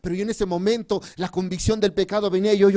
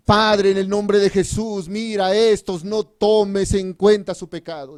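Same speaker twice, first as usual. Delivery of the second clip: slow, measured prayer with firm projection; retold earnest intercession; imitated prayer. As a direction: lead a prayer aloud, drawing out the phrases. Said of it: "Y empezó a decir".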